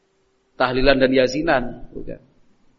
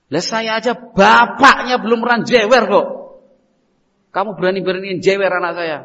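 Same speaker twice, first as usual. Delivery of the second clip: indignant father; 4 semitones higher, 6 dB louder than usual. Acted. Father confronting the neighbor who pulled his son's ear, outraged. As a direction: pick a fight over your son.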